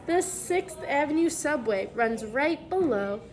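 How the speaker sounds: clear, lively picture-book reading voice; reading to children. Acted. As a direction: read the letter aloud to the class.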